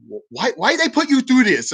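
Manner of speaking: high, mock broken-English pharmacist asking why; imitating broken English. Pharmacist asking the veteran why, in imitated broken English. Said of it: "she spoke really broken English".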